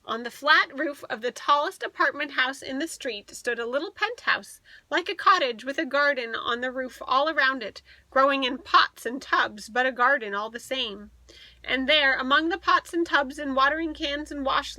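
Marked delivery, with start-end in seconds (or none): none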